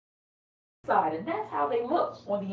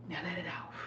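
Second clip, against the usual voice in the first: exhaling slowly; 3 semitones lower, 11 dB quieter, faster than usual. Shown as a demonstration. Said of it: "take a nice, big, deep breath with me".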